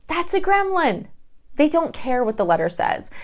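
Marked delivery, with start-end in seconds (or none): 0.1-1.1 patronising dealer. Retold or imitated. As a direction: talk down to her sweetly, then flatly. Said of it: "the dealer's gonna go".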